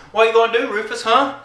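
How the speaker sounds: high goading mock neighbor; Jarney. Neighbor getting up close to his rival, high mock goading. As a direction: taunt upward, mimicking a rival. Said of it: "this is my impression of him".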